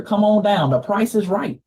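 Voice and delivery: lightly imitated game-show host call; a hint of the host calling up a contestant; Bob Barker. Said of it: "I'm like Bob Barker".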